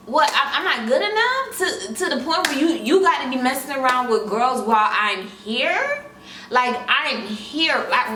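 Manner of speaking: exasperated confronting. Retold or imitated. Confronting the cheater.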